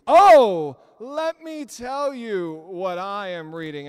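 loud, slow mock self-important reply; smug show-off. Preacher mocks a show-off at Starbucks, loud smug drawl. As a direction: ham up the smug Bible reader. Mocking showy Bible reader.

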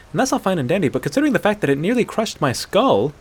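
lightly voiced excitable child telling a story; overstimulated child. Hunter recounting the wolf attack, like an overstimulated child. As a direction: rattle it off in a childlike rush, a hint of it. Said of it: "like an overstimulated child telling a story".

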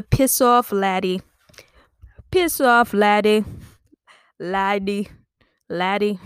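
punchy mock-Irish brush-off; bad Irish accent. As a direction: rehearse a stage-Irish catchphrase. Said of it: "I don't know how to do an Irish accent".

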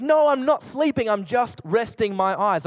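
little sister protesting to her brother, mock cranky; cranky denial. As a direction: insist you're awake like a grumpy little sister. Cranky sister denying again.

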